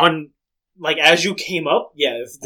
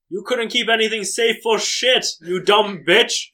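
raised-pitch scornful insult; acted angry scolding; 5 semitones higher than usual. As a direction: scold him, dragging out the final insult. Acted quarrel, Olivia insults host.

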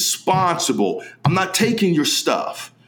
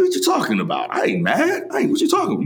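retold denial; 2 semitones higher, faster than usual. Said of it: "I said".

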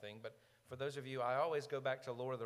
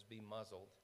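softer, understated authority; calm quiet command; 4 semitones lower, 10 dB quieter than usual. Retold or imitated. Jesus stands up himself and stills the sea, softly. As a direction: hush it with a soft word.

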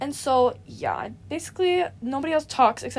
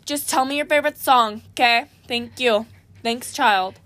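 loudly; 4 dB louder than usual. Pretend. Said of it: "And, like, really loudly".

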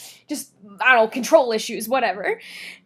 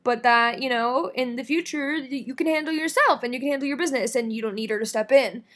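calm. Retold or imitated. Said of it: "such a calm, cool, collected way".

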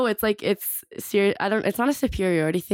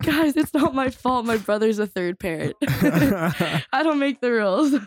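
amused, slow, higher pitch; laughing protest; 6 semitones higher, slower than usual. Retold or imitated. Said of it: "I'm like".

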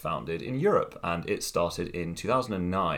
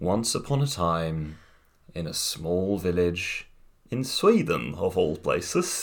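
storybook. Acted. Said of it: "So this is Story Time with the speaker".

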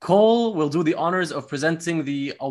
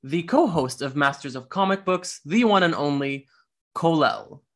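award show host voice. Pretend. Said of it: "I'm trying to put on my best award show host here".

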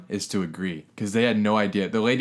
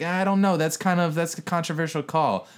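higher-pitched, imitating friendly hedging; retold friendly remark; 6 semitones higher than usual. Husband trying to get on their good side, imitated friendly. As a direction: lift the pitch, mock conciliatory. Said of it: "he's friendly with me".

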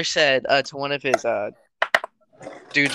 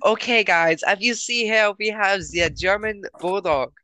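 higher-pitched put-on German accent; hammed-up German-accented announcement; mock German accent; 6 semitones higher than usual. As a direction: play a tour guide with a light German accent. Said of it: "how do you do German accent".

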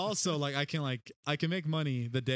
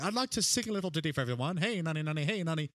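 higher-pitched mock minstrel; lightly hammed-up ditty singer; starving artist performer; 4 semitones higher, faster than usual. Medieval artist announcing a little ditty to the crowd, mock minstrel. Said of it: "it was the starving artists of the time".

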